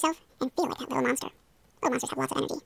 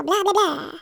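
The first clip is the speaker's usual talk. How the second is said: a touch louder mock vampire blah; baby vampire; 5 semitones higher, 7 dB louder, much slower than usual. Shown as a demonstration. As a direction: ham up a tiny vampire. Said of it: "I wanna hear you say it now".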